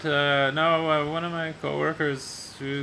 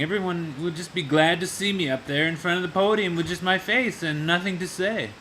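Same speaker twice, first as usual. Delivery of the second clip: mock boastful boss; 4 semitones higher than usual. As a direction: play the vain boss who thinks his face is enough. Boss boasting about his charm.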